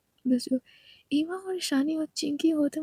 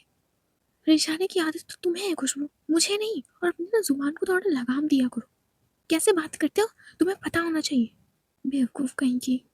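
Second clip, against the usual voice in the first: angry retort; 3 dB louder than usual. Acted. Natasha retorts angrily.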